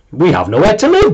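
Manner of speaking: put-on complaining child character. Mia to those who burnt her house, complaining.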